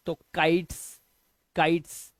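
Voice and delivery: काइट्स ending in a voiceless "ts"; hissed S ending. Shown as a demonstration. Teacher modelling the plural for pupils, hissed s ending. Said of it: "तो एस का sound".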